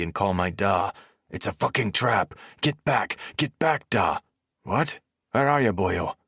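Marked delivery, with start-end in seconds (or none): 1.3-4.2 high, frantic shout; panicked high shouting on the run; shouting a warning. Acted. Warning da by phone while running. 4.6-6.2 worried da, lightly voiced, calling out; mild startled shout; yelling. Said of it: "Da yells into the phone".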